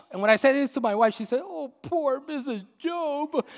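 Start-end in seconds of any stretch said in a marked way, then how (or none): 1.4-3.4 slow, softer, higher-pitched sympathy; a drawn-out, pitying coo; retold pity. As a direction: imitate a pitying wife, drawn out. Acts wife pitying Job's wife.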